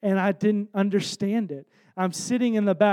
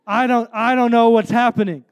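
louder, urgent plea for help; urgent retold plea to an old man, louder; 2 semitones higher, 5 dB louder than usual. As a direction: call it out, desperate. Begging old man for prayer.

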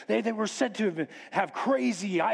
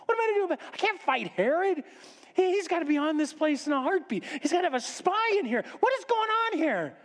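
high-pitched fretting; panicked; 10 semitones higher, faster than usual. Acted. Host fears Herod's spy in the house, panicked.

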